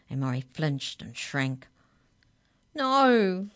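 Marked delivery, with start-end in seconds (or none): 2.7-3.5 high, loud, quavering refusal. A narrator's reading. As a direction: quaver it out in fear. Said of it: "he quavered".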